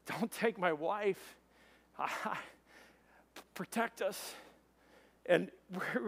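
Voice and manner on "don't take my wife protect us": slow, halting plea to God; retold desperate prayer, drawn out; urgent prayer. Driver prays to Jesus mid-crash, slow pleading. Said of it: "I pray in a moment".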